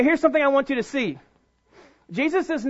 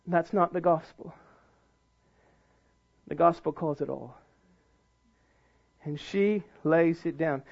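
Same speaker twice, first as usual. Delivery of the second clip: low, soft, solemn delivery with long pauses; hushed preaching; 8 semitones lower, 6 dB quieter than usual. Real, not acted. Preacher contrasting her gift with the priests, hushed. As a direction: drop right down and let each phrase land.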